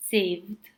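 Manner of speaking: "saved" said as "savd"; one syllable, "saved" ending in D; final D sound. Shown as a demonstration. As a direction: finish "saved" on D, no E vowel. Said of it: "sounds like a D and without the vowel".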